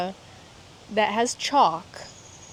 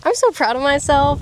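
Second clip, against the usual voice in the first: excited; 5 semitones higher, 5 dB louder than usual. Real, not acted. Thrilled tent finally up.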